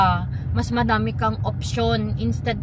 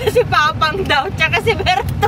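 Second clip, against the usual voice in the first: high, helpless giggles through the words; laughing while talking; 7 semitones higher, 4 dB louder than usual. Real, not acted. Retelling Daddy's dream of quarrelling over a truck, laughing. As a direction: tell it through fits of laughter.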